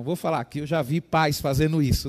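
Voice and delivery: ordinary talk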